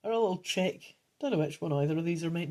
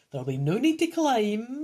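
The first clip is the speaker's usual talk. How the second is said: lightly voiced old man, higher pitch; a touch of old-geezer character, pitched up; 5 semitones higher, 4 dB louder than usual. Old man reassures the hero, lightly voiced old geezer. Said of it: "it's the old geezer speaking".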